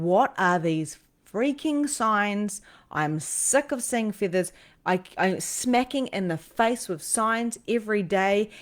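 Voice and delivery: mildly exasperated retelling, stretched emphatic words; frustration. Retold or imitated. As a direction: replay being fed up, leaning on the words. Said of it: "The frustration".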